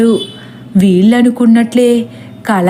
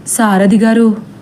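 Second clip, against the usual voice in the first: weary. Acted. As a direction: drag it out, worn out. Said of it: "అంటాడు నీరసంగా".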